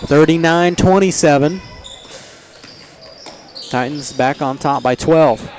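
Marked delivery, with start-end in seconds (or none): 0.0-1.6 excited shout. Real, not acted. Calls made three, shout heard.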